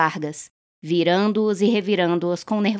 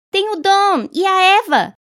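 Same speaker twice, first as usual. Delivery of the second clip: grito desesperado, muito agudo e alto; agarre-se a qualquer saída, gritando; 13 semitones higher, 7 dB louder than usual. A narrator's reading. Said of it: "gritou a senhora Hutchinson". (Tessie grita para o senhor Summers, desesperada)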